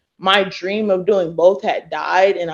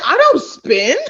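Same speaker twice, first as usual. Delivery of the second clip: laughing; 7 semitones higher, 4 dB louder than usual. Retold or imitated. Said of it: "I said".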